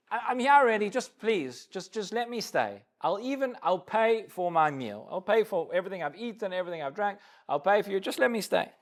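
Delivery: understated imitation of an embarrassed guest pleading; mild pleading. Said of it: "you can hear the pleading".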